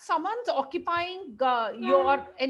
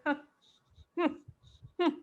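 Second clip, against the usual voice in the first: mock smug huh and hmms; scoffing little hums through a smirk; imitating an aggressive person's dismissive hums; 3 semitones higher, 4 dB quieter, much faster than usual. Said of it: "that sort of a smile they give".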